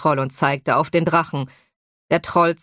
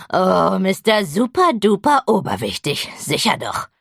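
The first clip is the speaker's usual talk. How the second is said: sarcastic. Acted. Troll rolls eyes, mocks.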